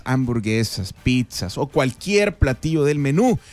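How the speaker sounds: drawn-out promo opening and close; sponsor ad read. Acted. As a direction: stretch the venue name like an announcer. Reads a sponsor spot.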